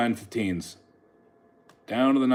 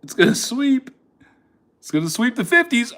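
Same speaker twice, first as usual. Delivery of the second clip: excited; 10 semitones higher than usual. Real, not acted. Repeating the prediction.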